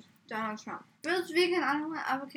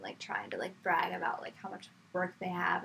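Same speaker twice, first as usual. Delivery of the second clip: whispering; 4 semitones lower, 6 dB quieter than usual. Real, not acted. Gossip about stressed classmates.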